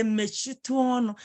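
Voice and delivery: courteous request at an everyday pitch; polite, respectful. Shown as a demonstration. Teacher showing a pupil what to say to elders, polite. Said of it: "in a polite way".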